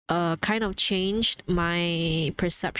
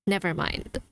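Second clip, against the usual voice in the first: mock dismissal; 2 semitones lower than usual. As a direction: say it as a small, mimicked retreat. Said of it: "And then you just go like".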